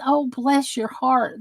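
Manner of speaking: soft, slow "Oh, bless your heart" full of sympathy; tender bless your heart. Retold or imitated. Explaining to chat the kind meaning, soft and tender. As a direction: say it gently, like real pity. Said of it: "That means".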